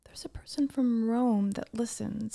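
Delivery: hushed whisper; breathy hushed reveal. Real, not acted. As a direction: whisper it like a secret.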